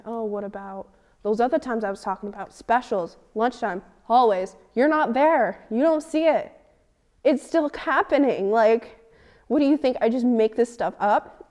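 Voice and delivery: rising angry challenge to the staff; retold heated argument. Arguing back at school staff.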